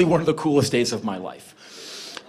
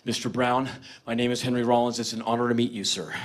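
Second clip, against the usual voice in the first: low, quiet, evenly recited introduction; rehearsed greeting; 7 semitones lower, 6 dB quieter than usual. Retold or imitated. Fan rehearsing for his idol in the mirror, low rehearsed greeting. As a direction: practise a formal greeting under your breath, pitched low. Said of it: "I have rehearsed for this moment".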